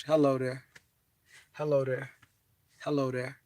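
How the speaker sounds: polite greeting. Shown as a demonstration. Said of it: "Polite, respectful".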